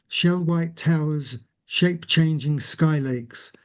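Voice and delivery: gentle, lyrical recital; poetry reading. Acted. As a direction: paint the landscape slowly. Reads the last poem.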